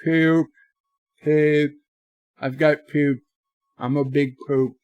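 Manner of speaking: put-on accent, low-key and halting; mock accent, trailing down in pitch and volume; Anti-tracker. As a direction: lightly imitate a streamer's accent in short, spaced bursts. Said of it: "Anti-tracker accent?".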